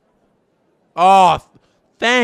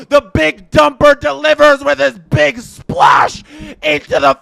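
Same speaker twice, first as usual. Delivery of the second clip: excited call; 4 semitones higher, 4 dB louder than usual. Real, not acted. Fan on stream calling the tying homer, loud dismay. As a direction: shout it out as the ball leaves the park.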